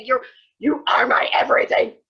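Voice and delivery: breathy mock whisper of adoration; hammed-up whispered gush; whispered devotion. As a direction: whisper it like a swooning confession. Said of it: "she's just like".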